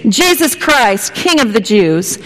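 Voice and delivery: repeated call, settling back down; herald calling out. Retold or imitated.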